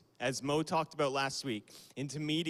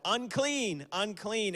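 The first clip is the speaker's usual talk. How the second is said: mock shout; 6 semitones higher, slower than usual. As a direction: call out to keep people away. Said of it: "you would have to shout".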